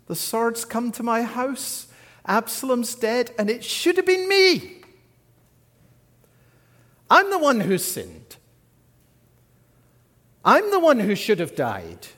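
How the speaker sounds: anguished lament. Acted. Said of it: "Here's his natural response".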